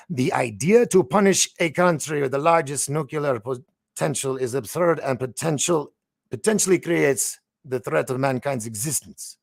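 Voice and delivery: put-on a light, half-hearted Russian accent on the quote. Host reading Medvedev's threat to viewers, in a light Russian accent. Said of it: "I'll give it a five on the accent".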